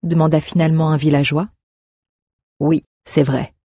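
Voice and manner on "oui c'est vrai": calme et mesuré, un peu plus bas; réponds posément, sans hausser le ton; ton posé. A narrator's reading. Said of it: "répondit Fario d'un ton posé". (d'un ton posé)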